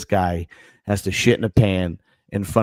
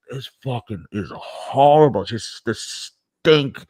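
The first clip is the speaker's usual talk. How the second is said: disgusted; much slower than usual. Retold or imitated. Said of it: "I'm sitting there just like".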